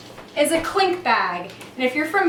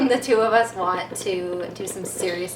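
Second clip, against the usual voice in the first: laughing; 2 semitones lower than usual. Real, not acted. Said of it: "so loud".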